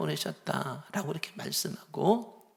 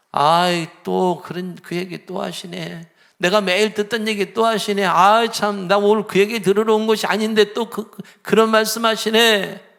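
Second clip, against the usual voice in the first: grumbling complaint; 3 semitones higher, 6 dB louder than usual. Retold or imitated. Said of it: "라고 한다면은요".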